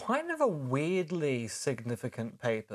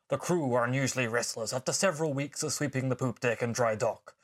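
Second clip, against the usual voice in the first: put-on pirate accent. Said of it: "that atrocious accent".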